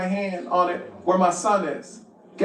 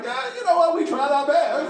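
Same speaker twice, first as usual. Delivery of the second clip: casual mechanic; 6 semitones higher than usual. Retold or imitated. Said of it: "the dude's like".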